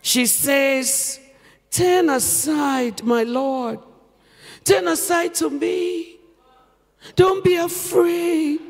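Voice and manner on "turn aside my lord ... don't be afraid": inviting. Acted. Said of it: "by being inviting".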